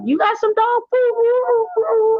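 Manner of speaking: high, slow cartoon dog voice. Voicing her dog Sandy asking the officer, high and slow. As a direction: voice the dog begging sweetly. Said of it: "Sandy was like".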